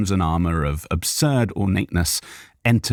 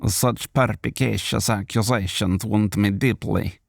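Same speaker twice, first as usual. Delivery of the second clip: smirking; 3 semitones higher than usual. Acted. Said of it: "Zarok smirked".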